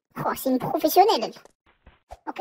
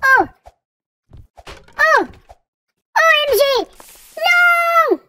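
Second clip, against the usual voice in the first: shocked outcry; 9 semitones higher, 4 dB louder, much slower than usual. Real, not acted. Sudden fail in game, dismay.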